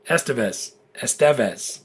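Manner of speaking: "Estevez" tried with the stress on the middle syllable, es-TE-vez; low, careful practice of "Estevez"; practicing Estevez stress. Shown as a demonstration. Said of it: "You put the stress on the penultimate syllable".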